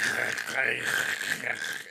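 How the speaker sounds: harsh grinding sound made with the mouth; rasping mouth-made crank noise; imitated sharpener noise. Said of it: "this shit was like".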